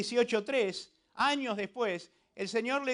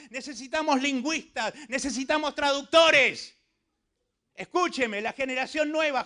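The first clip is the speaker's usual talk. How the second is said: rousing preaching appeal; 5 semitones higher, 5 dB louder than usual. Real, not acted.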